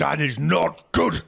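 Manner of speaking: loud, high, slow protest; losing composure. Acted. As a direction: protest slowly as composure cracks. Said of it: "he starts to lose his composure".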